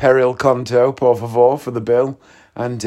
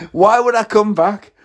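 indignant retort; 9 semitones higher than usual. Retold or imitated. Acted retort in a retold row.

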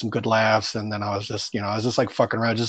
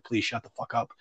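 mortified plea; 8 dB quieter than usual. Retold or imitated. Mortified, begging friends to stop.

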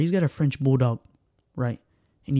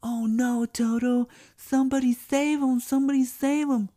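panicked owner; 9 semitones higher, 3 dB quieter than usual. Retold or imitated. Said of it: "the owner was like".

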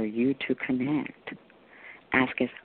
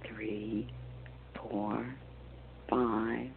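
guided meditation. Acted. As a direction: guide them gently into calm.

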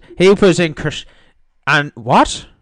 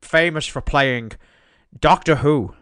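Sean Connery. Pretend. Host making up film facts, mock-Scottish accent. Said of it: "I am the Bollywood Sean Connery".

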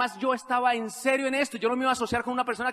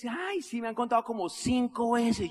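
dismissive prospect; 3 semitones higher than usual. Retold or imitated. Prospect brushes off the business pitch, dismissive.

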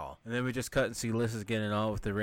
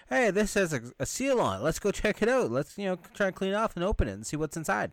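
high-pitched acted curiosity; eager discovery; 8 semitones higher than usual. Movie explorer finds a seal in crypt, mock eager. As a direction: imitate an excited explorer urging friends on.

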